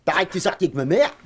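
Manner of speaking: put-on girl's voice asking "ma mère?"; imitated young girl. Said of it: "jeunes filles qui me disent".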